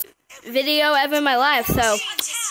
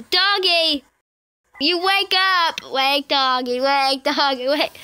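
nagging the dog; slower than usual. Pretend.

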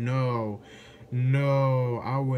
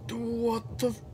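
much higher startled squeal; scared shriek; 12 semitones higher than usual. Real, not acted. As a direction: yelp it in fright. Sudden scare.

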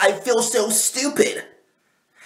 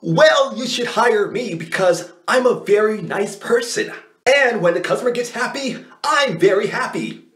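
white voice. Pretend. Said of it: "I was using my white voice".

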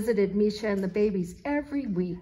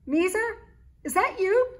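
calling out; 11 semitones higher, 7 dB louder than usual. A narrator's reading. Calling out in the dark.

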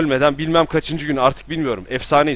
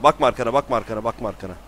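fading urgent command; much faster than usual. Real, not acted. Tekrarlanan emir, sönen ses. (yüksekten alçağa sönen uyarı)

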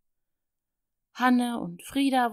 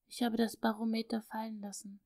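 softer, hushed confession; whispered; 6 dB quieter than usual. Acted. Little girl confessing to father, hushed. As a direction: confess it under her breath. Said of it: "flüsterte es leise, ganz leise".

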